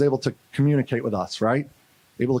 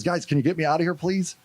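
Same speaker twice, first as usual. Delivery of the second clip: lightly voiced boy, higher pitch; retold polite plea, pitched up; teenage boy pleading; 4 semitones higher than usual. Jailed boy to soldiers, pleading to get out. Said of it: "there's a little".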